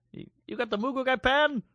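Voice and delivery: high-pitched put-on Asian accent; mock Asian accent. Cohost as a waiter taking an order, mock Asian accent. Mimics Asian restaurant worker reacting.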